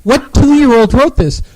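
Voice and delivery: loud, incredulous outburst; exasperated outburst. Real, not acted. Host blasting the blog writer to Andrew, loud disbelief. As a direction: yell at the clueless writer.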